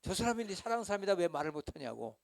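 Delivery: loud, high, fast impassioned declaration; hammed-up drama hero shouting love; drama hero line. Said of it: "박신양이 파리연인 한 번 더 해줘".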